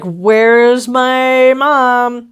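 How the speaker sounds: very slow, drawn-out mock child; mock child asking for her mother; mock little girl. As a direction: whine it out like a lost little kid. Mocking the child's line.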